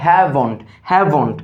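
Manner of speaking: "haven't" in two syllables, "hae-vont"; pronunciation demo. Shown as a demonstration. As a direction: say "haven't" with a round o in the ending. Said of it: "have not-কে উচ্চারণ কি করবো".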